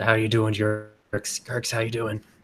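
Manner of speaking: soft whisper. A player's character pats the pile and greets it, whispering in. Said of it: "kind of like whispers in".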